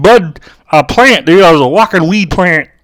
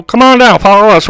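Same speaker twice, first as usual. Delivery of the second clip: put-on half-hearted Jamaican accent, slightly raised; failed Jamaican accent; 3 semitones higher than usual. Locals luring a tourist along, half-hearted Jamaican accent. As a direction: barely attempt the Jamaican accent. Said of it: "I can't do a Jamaican accent".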